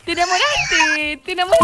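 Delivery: mock-surprised high tease; teasing. Host teasing the flirting caller with a mock singsong. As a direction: tease him in a lifted singsong.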